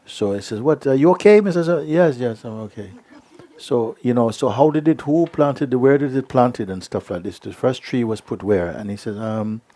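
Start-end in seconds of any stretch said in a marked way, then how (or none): 0.6-2.9 mock judge question. Court questions forgetful man. 4.3-8.7 mock questioning. Court questioning the accuser.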